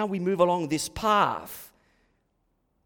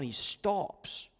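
ordinary talk

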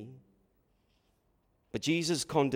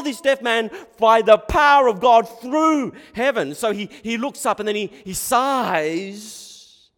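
high, loud, building sermon delivery; full-force preaching; 9 semitones higher, 9 dB louder than usual. Real, not acted. Preacher listing miracles to the congregation, full-force preaching. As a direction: pile up the list with a loud, raised voice.

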